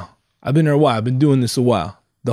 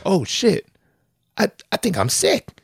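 sudden alarm; 9 semitones higher than usual. Retold or imitated. Sudden sickness hits, retold.

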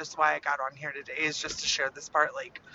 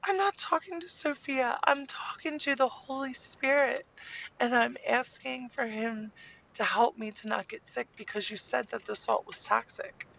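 put-on high-pitched kid voice protesting to mom; indignant child; 9 semitones higher than usual. Lily explains she is asking the Holy Spirit for help, high indignant child voice. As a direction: imitate a little girl earnestly setting her mother straight. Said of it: "And she's like".

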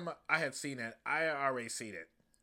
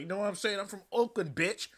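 Killmonger impression; 6 semitones higher than usual. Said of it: "Killmonger's like".

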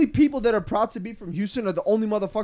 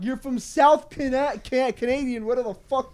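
real angry rant. Real, not acted. New Yorker rejecting an upstate impostor, angry. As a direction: lay into them word by word. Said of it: "I'm so angry".

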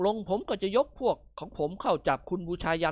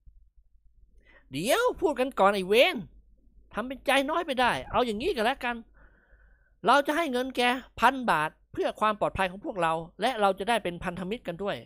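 lightly voiced Nikorn; 5 semitones higher than usual.

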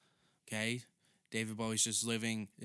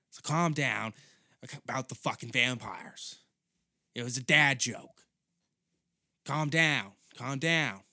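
mock scolding; 2 semitones higher, 5 dB louder than usual. Real, not acted. Telling imagined lady to calm.

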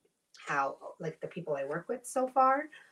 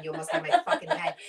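fast, higher, laughing through it; laughing protest; 10 semitones higher, 3 dB louder, faster than usual. Real, not acted. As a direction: laugh while you fake the outrage. Laughing jab at friend.

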